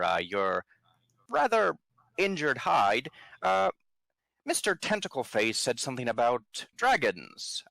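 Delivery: chummy, wheedling buddy act; overly familiar. Acted. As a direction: sidle up and sweet-talk him. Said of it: "and say".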